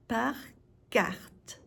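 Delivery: "Par", clear pause, then "carte"; word by word. Shown as a demonstration. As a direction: split Par carte into two separate words. Teacher separates words for learners.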